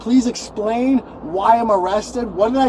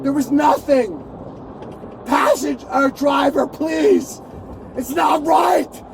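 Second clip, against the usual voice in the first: desperate shouting; 3 semitones higher than usual. Real, not acted. Arrested man pleading loudly with driver.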